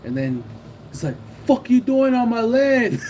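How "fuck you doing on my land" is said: high, drawn-out mock angry yell; retold angry confrontation. Rival confronting the seller over land, retold angrily. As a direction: imitate an aggressive rival staking his claim.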